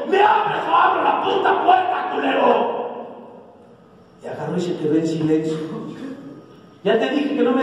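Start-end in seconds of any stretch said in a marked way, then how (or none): 0.1-2.8 angry threat. Retold or imitated. Father threatening his son through the door, furious. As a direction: threaten him to open up now.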